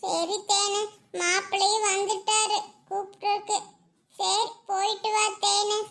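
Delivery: tearful, drawn-out goodbye; mild weeping through the words; saying it while crying. Acted. Friend sending the bride off to her husband, crying. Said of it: "ஏ அதை ஏண்டி அழுதுட்டே சொல்ற நிலா".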